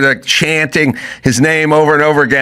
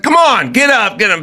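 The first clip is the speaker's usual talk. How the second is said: pleading rally; 9 semitones higher than usual. Retold or imitated. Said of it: "she's like".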